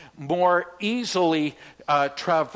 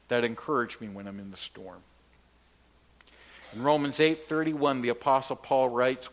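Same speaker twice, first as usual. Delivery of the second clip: ordinary delivery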